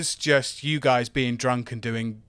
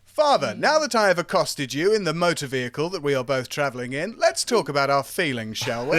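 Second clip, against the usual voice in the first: put-on posh accent. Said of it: "riffing on the posh son".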